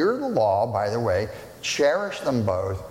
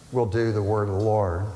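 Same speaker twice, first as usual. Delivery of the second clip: people's vow; 4 semitones lower than usual. Retold or imitated. Voicing the people's reply.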